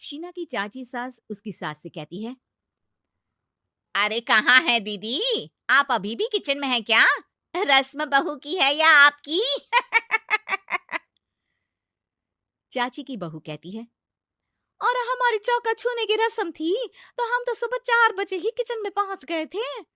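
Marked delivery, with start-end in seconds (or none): 4.0-9.4 taunting aunt-in-law. Acted. Aunt-in-law mocks the mother-in-law still in kitchen, loud teasing jibe. 9.5-11.0 high loud mocking laugh. Aunt-in-law laughs at the mother-in-law, high mocking laugh. Chachi laughs at her jibe. 14.8-19.8 much higher, loud bragging bride; boastful young bride. Acted. Young bride brags to the family about her ritual, high boastful voice.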